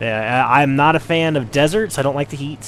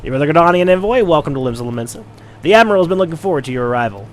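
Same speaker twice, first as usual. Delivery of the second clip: hurried, higher attempt at a Cockney pirate accent; 3 semitones higher, 4 dB louder, faster than usual. Voicing a Limsa official in mock Cockney, fast. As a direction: rattle it off fast in half-hearted Cockney. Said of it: "try to do an accent".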